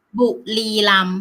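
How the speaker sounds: "บุรีรัมย์" with a light L in place of the R; unrolled R. Shown as a demonstration. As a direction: model "บุรีรัมย์" as bu-li-lam. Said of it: "you just say it like".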